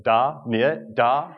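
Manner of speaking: high mocking echo of da, niet; a child teasing, bouncing the words up; mocking kid. Kid mocking the American's accent, echoing da, niet. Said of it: "he's going".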